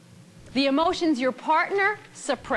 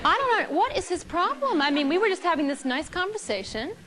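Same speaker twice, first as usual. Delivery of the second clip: raised, lightly voiced innocence; smug innocent wife. Wife puzzled by husband's outburst, mock innocent. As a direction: shrug it off as the sweet one. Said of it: "thinks to herself".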